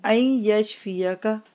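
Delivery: slow Arabic, each piece ending on a rise; word-by-word repeat-after-me. Shown as a demonstration. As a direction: break the dua into small pieces for learners. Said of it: "आप मेरे साथ दोहरा लीजिए".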